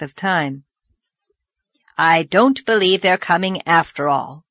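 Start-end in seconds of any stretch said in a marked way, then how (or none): 2.0-4.4 cross. Acted. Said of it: "said Marilla crossly".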